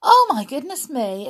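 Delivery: exclaiming. Real, not acted. Remarks how early it is.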